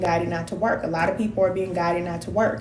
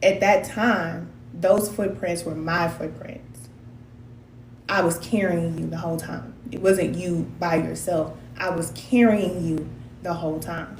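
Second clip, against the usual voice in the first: Spirit speaking; 3 semitones lower, 4 dB quieter than usual. Retold or imitated. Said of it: "then Spirit was like".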